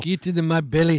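loud, high Scottish growl of a hungry giant; Scottish monster voice. Retold or imitated. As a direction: bellow it like a Scottish ogre. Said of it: "echoing the Scottish ogre line".

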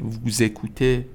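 ووزکوته slowly, "voo-zékooté"; ووزکوته as one drawn-out joined word; liaison with z. Shown as a demonstration. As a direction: link the pronoun to the verb with a z in ووزکوته.

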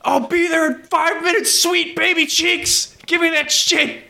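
high, slow mock seductive voice; hammed-up creepy come-on; creepy lover voice. Joking about the driver visiting, high slow mock seductive voice.

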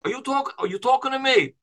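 a mild De Niro impression with talking punched; a hint of a New York accent; Robert De Niro. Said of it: "I'm gonna do my Robert De Niro".

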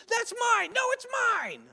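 put-on very high kid voice claiming the toy; squabbling toddlers. Preacher imitating his sons fighting over a toy car, high squeal. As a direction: squeal "mine" like a small child. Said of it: "my three-year-old and four-year-old son did that".

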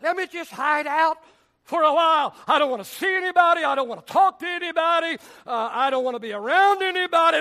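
fast, loud, petulant; hiding prophet loudly refusing company; sulky recluse. Retold or imitated. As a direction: brush everyone off in a hurry. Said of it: "saints like that".

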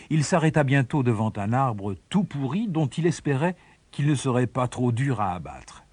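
usual speaking voice

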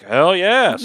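eager high-pitched yes; keen, excited acceptance in a retold story; hell yes. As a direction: jump at the offer, thrilled. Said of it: "And I'm like".

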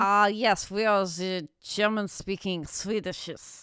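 slow, hammed-up German accent; mock German accent. Posing as a German-speaking Swede, mock German accent.

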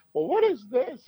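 imitating a drunk fan squealing at the ring; drunk girl. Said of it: "She was really drunk".

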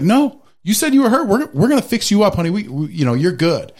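hammed-up fake-caring wife voice; sarcastic fake-sweet wife. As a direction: pretend to comfort while calling the bluff. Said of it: "My wife's like".

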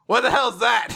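high, loud, bewildered outburst; startled mock shout. He spots a forgotten character, startled mock shout. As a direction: blurt it out in comic alarm.

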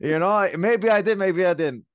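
coy, sing-song tease; playful teasing. Real, not acted. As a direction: keep them guessing, grinning. Teasing about studying the opponent.

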